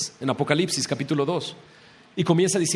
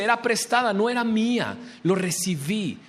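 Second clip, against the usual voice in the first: mock desperation; 5 semitones higher than usual. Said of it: "en su desesperación".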